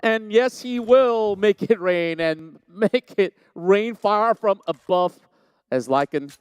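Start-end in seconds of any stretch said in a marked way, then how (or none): 0.0-5.2 excited hype. Real, not acted. Hyped call of a big play.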